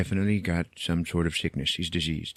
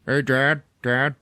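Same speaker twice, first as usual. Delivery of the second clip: loud, cheery coaxing; overly nice; 4 semitones higher, 4 dB louder than usual. Retold or imitated. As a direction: sweeten it for a sick old man. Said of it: "trying to be all nice".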